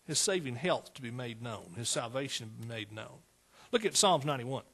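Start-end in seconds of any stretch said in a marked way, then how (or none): 0.1-3.2 dropping back to a soft, low echo; a quiet murmured echo of the verse; softer repeat. Acted. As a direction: let the phrase fall away gently. Preacher repeats the phrase softly.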